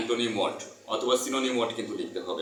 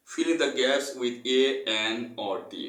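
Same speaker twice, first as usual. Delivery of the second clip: very slow, word-by-word textbook reading; reading aloud; 2 semitones higher, much slower than usual. Acted. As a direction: dictate it slowly so students can follow. Reads textbook instruction aloud.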